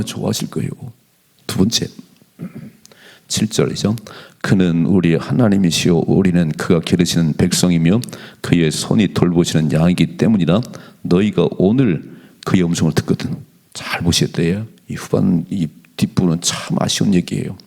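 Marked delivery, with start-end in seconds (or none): 4.4-13.4 scripture reading. Acted. Pastor reads the psalm aloud.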